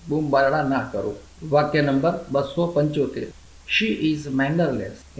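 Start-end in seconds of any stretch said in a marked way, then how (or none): 3.7-5.2 very slow, careful teacher read; slow model sentence. Shown as a demonstration. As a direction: lay each word out slowly for learners. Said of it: "teacher models English sentence". (ધીમે ધીમે સ્પષ્ટ ઉચ્ચાર)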